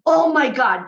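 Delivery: loud, starstruck burst; mock starstruck outburst; excited gasp. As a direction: blurt it out like a film nerd meeting a legend. Retelling his excitement about Spielberg.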